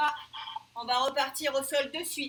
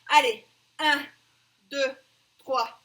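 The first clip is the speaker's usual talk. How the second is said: compte crié; 8 dB louder, slower than usual. Real, not acted. Coach counts reps aloud.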